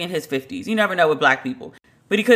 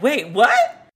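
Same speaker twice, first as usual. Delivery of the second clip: higher, startled double-take; retold disbelief; 4 semitones higher than usual. Teller recalling hearing the insult, in startled disbelief. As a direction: replay not believing your ears. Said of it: "I couldn't believe I just heard it".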